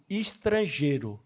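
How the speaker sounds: put-on slow, low, softened call of a kind old man; gentle old man. Old man kindly calling the lonely newcomer, slow and soft. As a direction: say it slowly and kindly, like a fatherly hand on the shoulder. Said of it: "esse homem chega do meu lado e fala assim".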